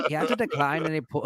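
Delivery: put-on half-laughing Northern English accent that breaks down; Northern English attempt. Host reads a headline in a failed Northern English accent. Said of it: "turn into the Irish".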